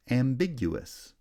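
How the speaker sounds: slow "Ambiguous", high on "big"; second-syllable primary stress. Shown as a demonstration. Teacher showing stress patterns, second syllable strongest in "Ambiguous". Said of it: "primary stress on the second syllable".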